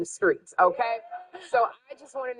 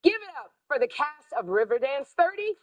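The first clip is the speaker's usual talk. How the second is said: big TV show introduction; announcer; 5 semitones higher than usual. Acted. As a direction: hype up the act.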